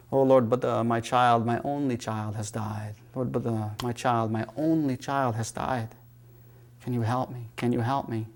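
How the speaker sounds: a hint of a grieving mother begging; mild mock weeping. Grieving mother begs the Buddha to save her child, softly tearful. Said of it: "weeping and crying and saying".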